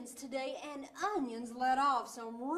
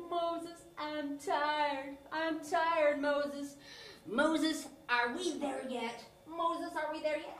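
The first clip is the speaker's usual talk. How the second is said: a mild, nagging whine, a little louder; whiny Israelites; 2 semitones higher, 3 dB louder, slower than usual. Acted. Tired Israelites nagging Moses on the walk, mild whine. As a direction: nag like a kid on a road trip. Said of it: "And they'd say".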